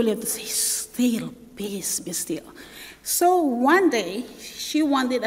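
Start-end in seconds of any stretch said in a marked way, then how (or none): 0.4-2.4 soft and lower, peace be still; peaceful. Shown as a demonstration. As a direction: hush the words like calming water. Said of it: "when it's peaceful".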